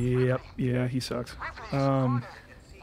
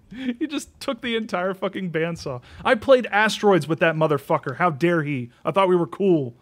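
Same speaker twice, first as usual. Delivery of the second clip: loud, high, furious venting; rising outrage, shouting about a thieving uncle; real angry rant; 6 semitones higher, 7 dB louder than usual. Real, not acted. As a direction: let the real grudge boil over, loud. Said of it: "I just got really mad thinking about it".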